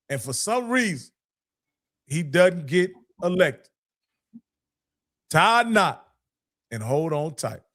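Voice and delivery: put-on rally them like an old coach; Coach Cole impression. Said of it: "I'm gonna try to do my best Coach Cole impression".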